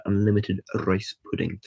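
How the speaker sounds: trilled R at the start of "rice"; rolled R. Retold or imitated. Retelling the photo pose with McCoy, rolled R. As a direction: roll the R in "rice". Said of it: "my ability to roll R's".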